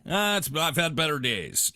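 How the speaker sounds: high, light throwaway answer; quick little ditty. Shown as a demonstration. Friend showing how to answer small talk, high and breezy. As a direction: toss off a breezy high reply. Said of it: "A little quick ditty".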